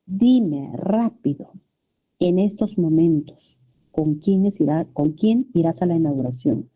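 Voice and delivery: a mild demanding tone; commanding question. Shown as a demonstration. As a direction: make it sound like an order, not a question. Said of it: "una imperativa".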